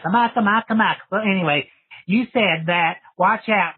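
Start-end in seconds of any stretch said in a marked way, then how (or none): 0.0-1.0 higher, playful movie-quote chant; playful mimicry of a movie catchphrase; quoting Hocus Pocus. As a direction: chant it like the film line. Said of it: "movie Hocus Pocus".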